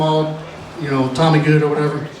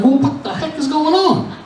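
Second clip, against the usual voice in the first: high-pitched comic bafflement; mock-alarmed confusion; bewildered outburst; 10 semitones higher than usual. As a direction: blurt it out, totally lost. Acts his confusion in class.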